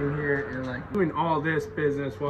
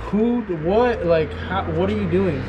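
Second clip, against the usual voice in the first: flustered, raised-voice mock scolding; alarmed mother; 4 semitones higher, 6 dB louder than usual. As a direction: imitate a startled mom, higher and louder. Mom's alarm at child on fence.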